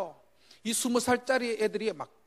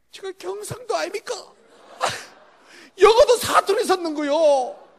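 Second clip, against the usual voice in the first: 웃음 섞어 느리게 크게; 스스로 우스워 웃음 터뜨리며; 웃으며 하는 말; 8 semitones higher, 9 dB louder than usual. Real, not acted. 사투리 영어 농담. (웃음 섞인 자조적인 말투)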